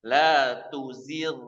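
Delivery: la tuzigh with a thin gh, slow; slow correct gh. Shown as a demonstration. Teacher modelling thin ghain after kasroh. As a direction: read tuzigh lightly and slowly. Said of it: "jangan dibaca begini".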